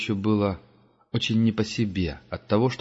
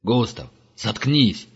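angry snap; 2 semitones higher, slower than usual. Acted. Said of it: "вспылил Герман".

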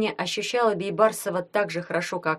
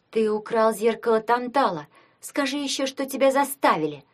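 higher-pitched mild shout; crying out; 5 semitones higher than usual. A narrator's reading. Tanya accuses Gleb of stealing the mirror, crying out. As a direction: raise the pitch in an indignant, restrained cry. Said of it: "крикнула Таня".

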